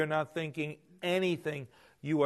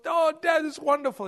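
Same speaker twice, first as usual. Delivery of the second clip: excited cheering; 12 semitones higher, 7 dB louder than usual. Retold or imitated. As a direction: cheer him on at full voice. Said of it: "he goes".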